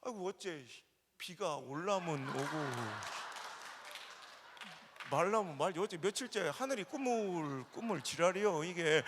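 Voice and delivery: put-on slow, drawling old farmer grumble; old Chungcheong farmer. Preacher voicing a rural grandfather dodging the haggle, slow drawl. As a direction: drag out the weather talk like an old farmer. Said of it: "할아버지가".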